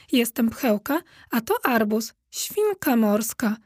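"świnka morska" slowed for emphasis; emphatic. A narrator's reading. Dog corrects the cat about her friend, stressing "świnka morska". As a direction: lean on "świnka morska", drawing it out. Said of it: "dodała z naciskiem".

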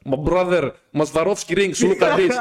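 put-on hawker's English with light Russian accent; lightly put-on Russian-accented sales pitch; mock Russian accent. Disguised peddler pushing Swarovski rings, light Russian accent. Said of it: "είχε τη Ρώσικη τώρα".

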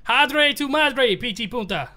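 slow mock Spanish in a southern accent; hammed-up southern accent Spanish. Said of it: "southern accent that speak Spanish".

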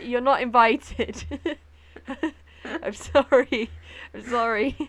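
loud, slow mock apology; teasing. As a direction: playfully rub it in. Teasing American listeners.

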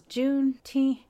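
mock baffled white lady; confused coworker. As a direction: coworker stumbling over the word.

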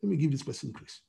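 God's grace gently speaking up for someone. Retold or imitated. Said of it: "The grace of God comes and says".

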